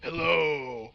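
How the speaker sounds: imitating the sister's mocking echo of his hello in a put-on voice. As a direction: parrot his hello back to tease him. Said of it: "immediately mocked my voice".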